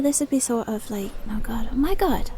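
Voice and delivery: Dublin attempt slipping into Cockney; lightly Cockney, by mistake; accidental Cockney accent. Shown as a demonstration. Trying Dublin for the viewers, a botched Cockney-sounding accent. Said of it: "I just went into Cockney or something".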